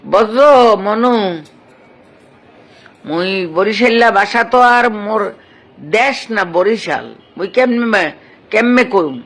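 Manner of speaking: put-on light Barisal village accent, half joking; Barisal dialect. Actor answering a fan's request on live, mild Barisal accent. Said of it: "চমৎকার বরিশালের ভাষা".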